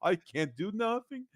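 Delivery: mocking, whiny, pleading voice; whiny crying mockery. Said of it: "It's always crying like".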